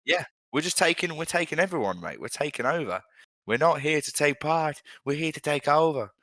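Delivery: put-on chanting a rallying cry in an Irish accent; high, punchy Irish accent. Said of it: "instead of an Irish accent".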